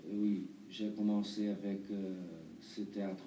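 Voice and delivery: halting Brazilian-accented French; foreign accent in french. Real, not acted. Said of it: "Pardon, mon français, euh, n'est pas très bien".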